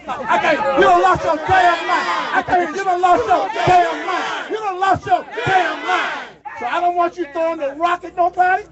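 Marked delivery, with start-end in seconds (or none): 0.8-6.1 raised, higher, punching each word out; repeated shout. Real, not acted. Leader repeating the line to the rally, shouting. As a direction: shout it back to the crowd again. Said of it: "y'all say it again".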